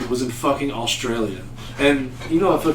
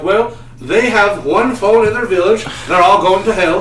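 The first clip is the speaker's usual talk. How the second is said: mock judgmental Amish; 5 semitones higher, 4 dB louder than usual.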